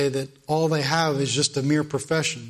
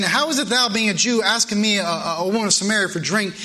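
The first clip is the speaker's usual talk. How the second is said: the woman's question; 3 semitones higher than usual. Retold or imitated. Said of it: "she came to him with a question saying".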